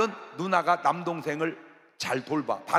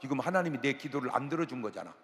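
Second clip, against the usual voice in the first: ordinary delivery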